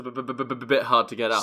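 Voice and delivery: jokey stammer on repeated b's; mock stutter. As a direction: trip over the b sounds on purpose. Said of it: "the King's Speech".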